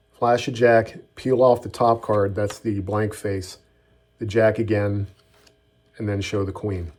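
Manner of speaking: slow, step-by-step demo; slow walkthrough. Shown as a demonstration. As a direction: talk it through slowly, card by card. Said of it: "Up to speed".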